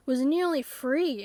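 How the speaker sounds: slow, wistful trailing-off; wistful sigh. Pretend. Object admitting its near escape, slow and wistful. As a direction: let the dream of freedom fade slowly. Object sheepishly explains its fall.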